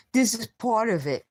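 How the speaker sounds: words dragged out through a sore throat; strained voice. Real, not acted. Telling viewers his voice is damaged, strained and slow. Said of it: "my voice will be better".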